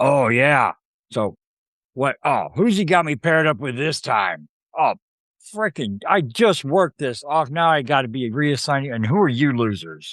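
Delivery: fifties-style cherub voice dripping with attitude. Retelling a story, voicing a cigar-smoking cherub who pops up, imitating his attitude. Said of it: "he pops up with a voice like".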